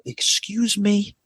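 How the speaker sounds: drawn-out, offended; slow indignant excuse me. Retold or imitated. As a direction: stretch it out in disbelief. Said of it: "I go".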